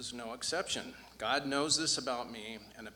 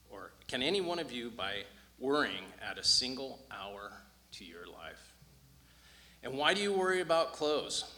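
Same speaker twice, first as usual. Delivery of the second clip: earnest, louder Bible reading; scripture reading; 3 dB louder than usual. Acted. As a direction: read the passage with conviction. Reads the scripture passage aloud.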